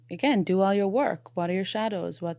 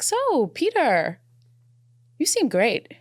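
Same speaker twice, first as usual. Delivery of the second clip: high, slow, sing-song mock setup; girlfriend's pointed setup; 8 semitones higher, 4 dB louder, much slower than usual. Retelling a friend's meddling at dinner, high sing-song mock voice. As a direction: play the meddling friend putting him on the spot.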